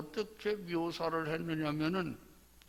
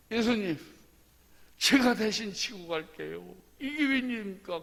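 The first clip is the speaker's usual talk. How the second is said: higher, louder acted plea; urgent pleading; 4 semitones higher, 4 dB louder than usual. Preacher as Simon offering to carry Jesus' cross, urgent pleading. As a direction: plead urgently with someone you revere.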